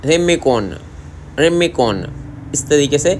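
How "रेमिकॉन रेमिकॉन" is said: Korean accent. Shown as a demonstration. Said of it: "इस तरह बोलते हैं".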